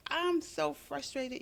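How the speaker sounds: high, slow, drawn-out mock complaint; a hammed-up, exasperated sigh of a line; exasperated moan. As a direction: moan it like everyone does when fed up. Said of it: "We always say".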